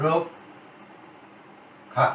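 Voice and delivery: রক্ষা whispered very slowly, drawn out; whispered demo. Shown as a demonstration. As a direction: breathe রক্ষা out slowly as a model. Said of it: "যেমন". (ফিসফিস করে ধীরে রক্ষা)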